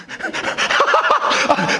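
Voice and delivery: breathy, high burst of laughter; amused laugh. Real, not acted. Preacher tickled by how funny the Bible is, amused laughing. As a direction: crack up at your own story.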